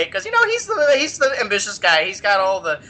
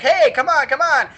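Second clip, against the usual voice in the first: Nurgle beckoning; 7 semitones higher, 3 dB louder than usual. Retold or imitated. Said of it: "And Nurgle's like".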